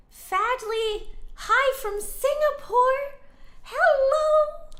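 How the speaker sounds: bright excited hello from afar; excited greeting. Real, not acted. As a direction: greet them with delight.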